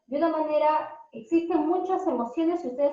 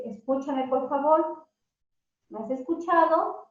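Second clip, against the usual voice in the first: calm request. Shown as a demonstration. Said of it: "Es muy diferente decir".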